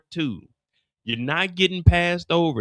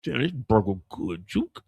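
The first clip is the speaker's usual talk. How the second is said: Kanan voice; 5 semitones lower than usual. Retold or imitated. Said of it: "talking like he drunk".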